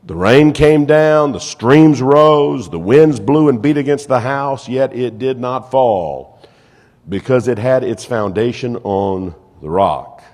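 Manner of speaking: loud, drawn-out scripture reading; preacher reading scripture. Acted. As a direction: read the verse out slowly and forcefully. Reads scripture aloud to congregation.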